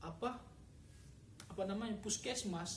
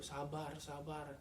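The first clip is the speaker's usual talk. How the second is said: low, soft, calming repetition; soothing wife; 4 semitones lower, 5 dB quieter, slower than usual. Retold or imitated. Wife calming her crying husband, soft and low. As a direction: gently hush him like a worried spouse.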